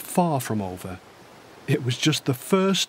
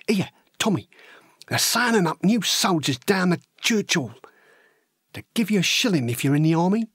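chatty working-class lad telling his own tale; matey, plain-spoken soldier's yarn; young Cockney recruit recounting. Acted. Horace recalling how he went to enlist, chatty.

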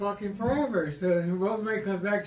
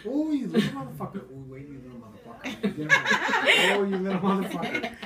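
mother calling. Retold or imitated. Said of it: "That was all I heard".

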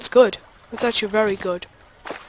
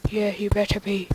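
whisper. Pretend. Scolding inner voice.

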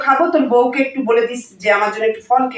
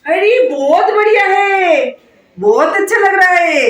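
delighted; 5 semitones higher than usual. Acted. Admiring the necklace.

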